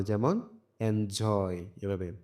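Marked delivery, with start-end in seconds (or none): 0.8-1.7 drawn-out, stressed জয় ending in এনজয়. Shown as a demonstration. Teacher showing pupils the capital-letter syllable, stress on জয় in এনজয়. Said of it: "এগুলোতে কি জোর দিয়ে পড়তে হবে".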